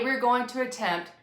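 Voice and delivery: emphasis landing on "attempt"; "attempt" picked out with extra weight; stress on attempt. Real, not acted. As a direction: lean on the word "attempt". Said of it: "emphasis on the word attempt".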